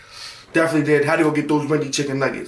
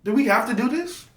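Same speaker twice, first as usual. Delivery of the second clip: high, desperate begging; a high whiny plea to mom; pleading; 9 semitones higher, 3 dB quieter than usual. Retold or imitated. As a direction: beg to get out of it in a high voice. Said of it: "I'm like".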